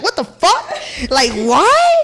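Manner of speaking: mock outrage cracking into laughter; laughing disbelief. Retold shocked reaction, laughing.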